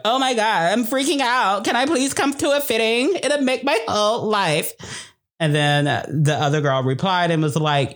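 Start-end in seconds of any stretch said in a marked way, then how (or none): 0.1-4.7 high, breathless gushing fangirl; Kim Kardashian. Retold or imitated. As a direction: squeal it like a starstruck celebrity. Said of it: "Kim responded and was like".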